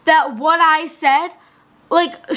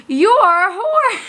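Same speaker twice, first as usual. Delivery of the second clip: a bit higher and louder, mocking; mock louder accusation; 8 semitones higher, 3 dB louder, slower than usual. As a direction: repeat it louder as the teacher quotes it. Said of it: "said it again louder".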